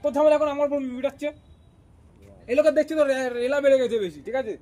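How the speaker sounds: loud, heated scolding; angry warning. Acted. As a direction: push back hard at being blamed. Fed up, warning in quarrel.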